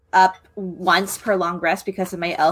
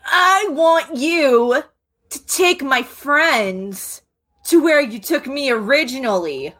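put-on slow, higher kid's voice; generic orphan voice; 3 semitones higher, slower than usual. Orphan pressing the frightened fawn to guide friends. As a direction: ask slowly and carefully like a plain orphan child. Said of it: "that's my generic orphan voice".

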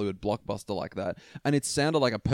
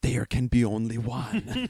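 mock Highlander accent; slower than usual. Shown as a demonstration. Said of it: "get ready for this".

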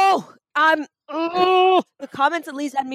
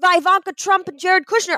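outraged shout; 5 semitones higher, much slower than usual. Real, not acted. Outraged at Hugh Jackman.

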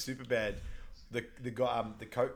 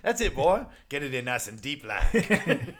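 monster truck guy; 3 semitones higher, 6 dB louder, slower than usual. Retold or imitated. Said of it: "He goes".

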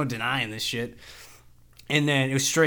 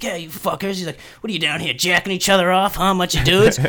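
mock pissed-off cop; 4 semitones higher, 5 dB louder than usual. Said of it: "He's acting all pissed off".

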